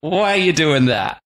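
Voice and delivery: lightly hammed-up wifely complaint; nagging wives. Wives questioning their husbands' bread, in mock scolding. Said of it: "and the wives are like".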